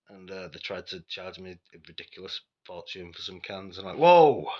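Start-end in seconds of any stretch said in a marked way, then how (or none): 4.0-4.5 sudden high, loud exclamation; startled, objecting shout; loud protest. Retold or imitated. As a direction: call out in protest, pitched right up. Retold protest at being overcharged.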